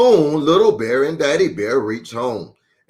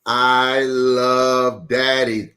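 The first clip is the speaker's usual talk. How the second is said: tender thought; much slower than usual. Acted. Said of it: "thought Little Bear".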